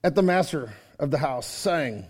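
low, soft solemn scripture reading. Acted. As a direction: read the verses low and grave. Reads scripture aloud.

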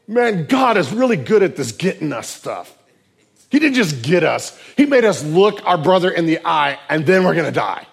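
loud mock-panicked brothers; dismayed. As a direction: complain in comic doom, loudly. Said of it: "they were greatly dismayed".

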